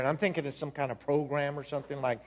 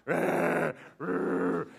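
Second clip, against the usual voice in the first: imitated ugly crying; 3 semitones higher than usual. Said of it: "ugly crying".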